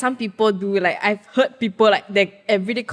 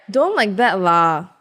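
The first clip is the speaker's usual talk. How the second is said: Singlish; 4 dB louder, slower than usual. Retold or imitated. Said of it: "Like, this is how they'll speak".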